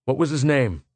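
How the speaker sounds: a lightly voiced cold officer; indifferent officer. Lieutenant questioning Pola, indifferent. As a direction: ask without caring. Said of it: "utter indifference".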